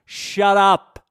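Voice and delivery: acted domineering bellow; bossy shutdown. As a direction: shout them down like an overbearing boss. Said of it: "Everyone loves a boss like that".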